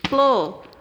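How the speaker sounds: Floresta chopped into flo, res, ta with pauses; three separate punched beats on Floresta; split into syllables. Shown as a demonstration. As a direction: beat out Floresta one syllable at a time. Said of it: "Ó, de novo".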